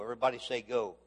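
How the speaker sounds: rally them to repeat it; call to the crowd. Acted.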